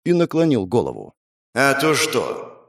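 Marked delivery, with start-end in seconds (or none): 1.5-2.7 drawn-out, very slow sneer; slow mocking challenge. Rider sneering at the girl, slow mocking challenge. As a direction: toy with her.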